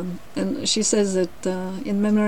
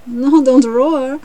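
higher, louder, drawn-out protest; mild roar; 5 semitones higher, 7 dB louder, slower than usual. A narrator's reading. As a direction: roar back slowly as the lion. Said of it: "roared the lion again".

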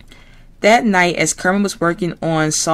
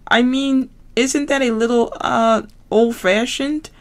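higher frog voice; Kermit voice; 7 semitones higher than usual. Acted. Kermit answering Piggy on the phone, frog voice.

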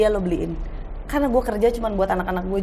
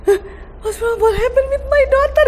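high, loud, near-crying panic; mother panicking over her daughter, near tears; panicked mother; 5 dB louder than usual. Retold or imitated. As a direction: wail it as a frightened mom. Panicked mother imitating self.

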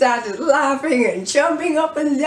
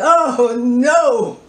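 mild yell; 4 dB louder than usual. Acted.

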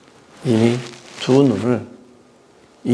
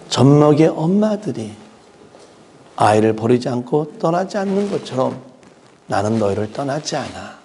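comforting God. Pretend. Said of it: "품으면서 위로합니다".

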